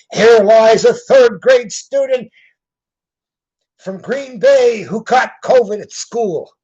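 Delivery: loud, high, drawn-out mock epitaph; mock inscription reading. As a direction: read it out with exaggerated solemn projection. Reads out mock tombstone inscription.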